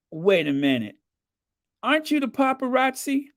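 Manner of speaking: imitating an East LA guy; East LA accent. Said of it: "very strong East L A accent".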